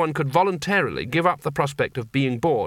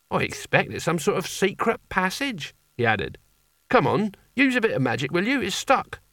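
higher, lightly voiced eager lad; earnest boy hero; 6 semitones higher than usual. Young would-be barbarian explains his failed theft, earnest and higher. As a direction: play the keen young barbarian.

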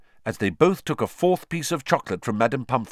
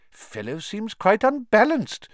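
tag; 13 semitones higher than usual. A narrator's reading. Fudge shocked at Snape's outburst.

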